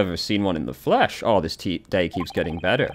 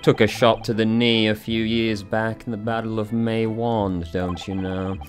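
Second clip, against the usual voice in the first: hearty retired military gent; pompous old colonel greeting; old soldier voice. Acted.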